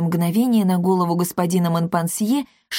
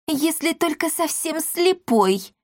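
high, slow dry sarcasm; sarcastic; 9 semitones higher, slower than usual. A narrator's reading. Matchmaker mocks the bride's looks, slow sarcasm. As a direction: drawl the jab. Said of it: "сказала Лалипута Баларди".

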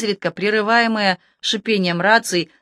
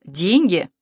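sarcastic query. A narrator's reading. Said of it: "язвительно подняла брови Александра".

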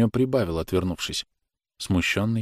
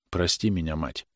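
softer, guilty apology; quietly; 3 semitones lower, 5 dB quieter than usual. Acted. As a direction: say it low, ashamed. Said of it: "негромко сказал он".

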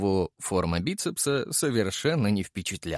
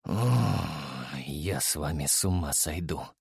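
heavy sigh; 8 semitones lower, 6 dB quieter than usual. A narrator's reading. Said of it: "тяжело вздохнул я".

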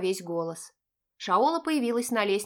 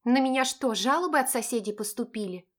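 smirking; 3 semitones higher than usual. Acted. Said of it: "усмехнулась я".

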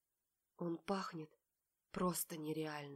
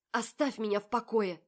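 louder, higher, pleading; tearful yell; 5 semitones higher, 8 dB louder than usual. A narrator's reading. Polly yells at Marat to leave her alone. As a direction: push him away with the voice.

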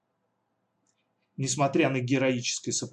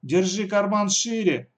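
cutting retort; 7 semitones higher, 5 dB louder, slower than usual. Acted. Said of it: "оборвала её Алиса".

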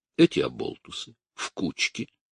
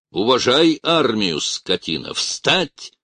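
angry shout; 6 semitones higher, 4 dB louder than usual. A narrator's reading. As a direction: stress армию, loud command. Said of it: "крикнул он семинаристу".

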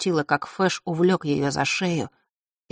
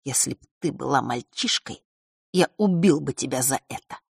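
cold fury; 2 semitones lower than usual. Acted. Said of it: "холодной злобой".

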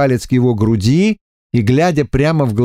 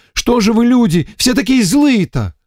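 higher, whining lament, nearly tearful; lamenting emissary; 11 semitones higher than usual. A narrator's reading. Эмиссар причитает перед Варварой, плаксиво. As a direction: complain of being beaten all day. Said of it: "Закончил причитать?".

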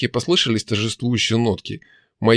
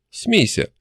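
command; 8 semitones higher than usual. A narrator's reading. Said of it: "commanding demon's laughter".

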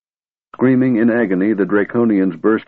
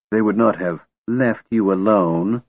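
mocking mimicry. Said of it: "His voice grew shrill, mimicking Tika's".

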